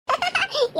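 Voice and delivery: high giggling burst; burst of laughter. Acted. Friend laughing at Shankar's swollen face, high giggle. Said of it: "எனக்கு சிரிப்பு தாங்கல".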